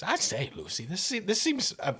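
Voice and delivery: lightly voiced hesitant, proper gentleman; a hint of fussy, uneasy gentleman; nervous gentleman. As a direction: stammer out a timid objection. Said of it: "swallows nervously and, and says".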